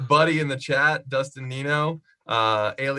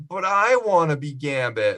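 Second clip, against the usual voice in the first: drawn-out, higher mock plea; mock pleading; 4 semitones higher, 3 dB louder than usual. Host imitating Channing Tatum wanting the part, mock pleading. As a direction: imitate a star insisting on the role. Acting out Tatum demanding a role.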